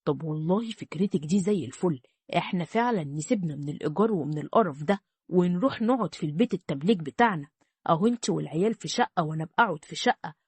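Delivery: a hint of a greedy man warming to the idea; scheming husband.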